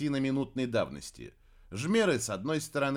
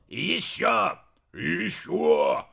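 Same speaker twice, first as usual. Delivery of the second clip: egging on; 5 semitones higher, 5 dB louder, slower than usual. A narrator's reading. Cheering on the attack.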